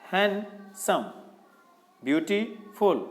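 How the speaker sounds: हैंडसम and ब्यूटीफुल said slowly, syllable by syllable. Shown as a demonstration. Teacher showing long words need pauses, slow syllables. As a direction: sound each word out slowly. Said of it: "जिसको एक बार में नहीं".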